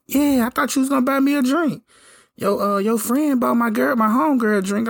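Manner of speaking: high mock girly voice; mimicking the woman. Voicing the woman at the bar.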